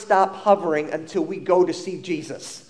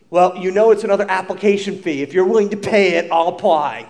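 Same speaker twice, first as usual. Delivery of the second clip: put-on a touch of snide teenage attitude, louder and quick; 5 dB louder than usual. Teenage Steve giving his mom a snide reply, louder and quick. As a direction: toss it off like a cocky teen. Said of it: "I give that little snide response".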